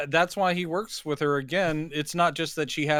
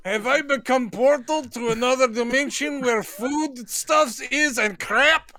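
high panicked wail; 7 semitones higher than usual. Pretend. Voicing sick villain.

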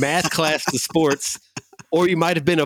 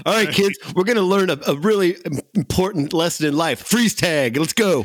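bored gym teacher; 4 semitones higher than usual. Retold or imitated. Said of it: "he was phoning it in there. Like".

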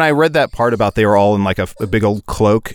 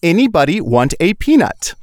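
giant voice; 6 semitones higher than usual. Retold or imitated. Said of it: "repeat after me".

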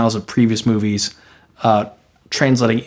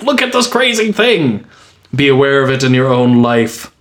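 mock exclamation; 3 semitones higher than usual. Acting out Brecht's message.

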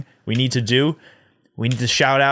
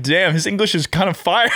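laughing; 6 semitones higher than usual. Retold or imitated. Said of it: "I was like".

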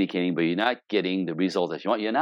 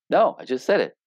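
mild exasperation; 6 semitones higher than usual. Retold or imitated. Husband answers suspicious wife.

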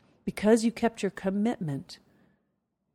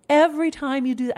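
excited; 7 semitones higher, 7 dB louder than usual. Real, not acted. Excited repeat of the point.

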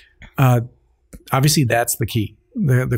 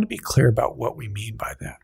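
whispering; 2 semitones lower, 5 dB quieter than usual. Real, not acted. Quiet clarifying aside.

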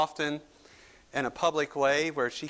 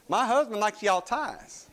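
Southern drawl; 5 semitones higher than usual. Retold or imitated. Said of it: "and she says".

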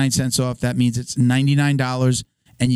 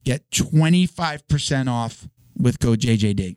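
ad read; slower than usual. Acted. Sponsor ad read.

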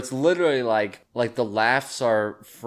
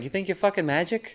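put-on taunting Boston dude accent, softer; a classic Boston dude heckling, Boston accent; 6 semitones higher, 7 dB quieter than usual. Heckler daring Houdini into the whale, in a Boston accent. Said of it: "That's a really good Boston accent".

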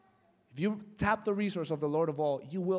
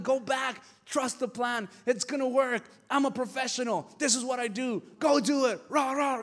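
pep talk; 6 semitones higher than usual. Retold or imitated. Psychologist pep-talking the wife.

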